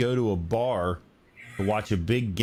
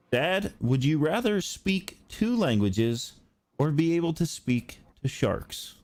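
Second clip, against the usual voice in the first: lightly imitated son, higher and slower; son's question; 6 semitones higher, slower than usual. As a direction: pose it slowly, like quoting your kid. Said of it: "and he said".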